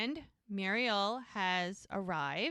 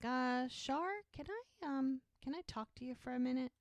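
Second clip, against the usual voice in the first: soft, higher, careful request; friendly, smiling; 4 semitones higher, 5 dB quieter than usual. Retold or imitated. Jack asks Shar for a private word, trying to be friendly. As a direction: ask gently with a forced smile. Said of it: "with a smile, like, trying to be friendly".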